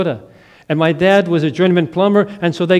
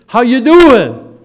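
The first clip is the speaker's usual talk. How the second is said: cheery greeting; 6 semitones higher, 9 dB louder, slower than usual. Retold or imitated. Friend Kip surprises him.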